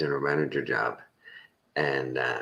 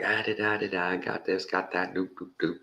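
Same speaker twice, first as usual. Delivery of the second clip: high, quieting patter of filler sounds; salesman rattling on; 5 semitones higher, 5 dB quieter than usual. Retold or imitated. A hint of the salesman listing everything off. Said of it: "he's like".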